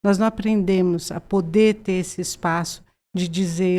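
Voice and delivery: usual speaking voice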